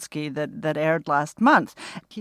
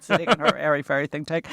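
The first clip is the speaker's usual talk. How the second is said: laughing mockery; 2 semitones lower, faster than usual. Real, not acted. Mocking a critic's phrase, laughing.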